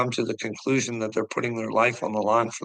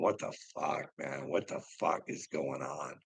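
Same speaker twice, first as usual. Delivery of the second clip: much softer, dazed and defeated; softer, lost, hopeless mutter; lost and broken; 7 semitones lower, 10 dB quieter than usual. Retold or imitated. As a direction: mumble it like a broken veteran. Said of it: "all mentally fucked up going".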